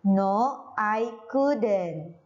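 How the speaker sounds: "couldn't" as "kuden", L silent; teacher's model "couldn't" with no L; model pronunciation of couldn't. Shown as a demonstration. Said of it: "Seperti itu ya, bacanya bukan cold".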